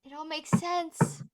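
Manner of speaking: slow, high dawning realization. Acted. Amalthea realizes she's a horse, slow and amazed. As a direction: let it sink in slowly.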